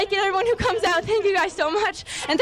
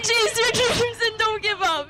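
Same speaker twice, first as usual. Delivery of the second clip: tearful; 2 semitones higher, slower than usual. Real, not acted. Tearful winner advising young girls.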